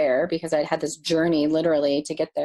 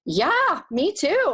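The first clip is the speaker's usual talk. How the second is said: overwhelmed yes; 13 semitones higher, slower than usual. Retold or imitated. Tearful reply to welcome.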